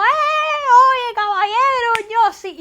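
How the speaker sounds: high, drawn-out shout; super-loud Cuban. Shown as a demonstration. Cuban woman showing how loud Cubans talk, super loud. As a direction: holler out like a rowdy Cuban calling his buddies. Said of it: "Los cubanos somos ... hablamos súper alto".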